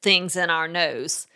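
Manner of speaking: measured, firm rule-setting; firm parent to a toddler. Shown as a demonstration. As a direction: lay down the rule without yelling. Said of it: "being that firm".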